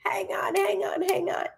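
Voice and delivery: hushed whisper, breath only. Real, not acted. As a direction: whisper to buy a moment. Reader pausing to catch a message.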